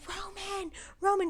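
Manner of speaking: high worried call; mock calling after him; retold calling out. She turns and sees Roman struggling, high worried call.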